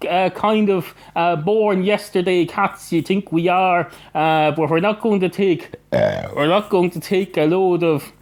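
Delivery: a touch of aggrieved refusal; mildly indignant. Acted. Cat refusing the barman's foreign Fanta, mildly indignant.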